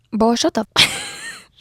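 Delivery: drawn-out, very high disbelieving groan; exasperated. Real, not acted. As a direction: squeal it in total disbelief. Exasperated reaction to the story.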